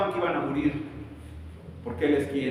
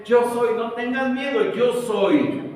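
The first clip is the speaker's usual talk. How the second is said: higher and louder, commanding; divine proclamation; 6 semitones higher, 4 dB louder, slower than usual. Acted. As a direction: announce God's presence. God appearing to people. (proclamación divina potente)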